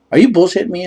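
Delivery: high, loud incredulous question; hammed-up fuming date; mock outrage. Imitating angry date at the check.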